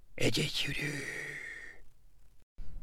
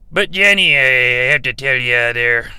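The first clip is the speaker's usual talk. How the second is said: dramatic outburst; 7 dB louder than usual. Acted. Dramatic confession to host.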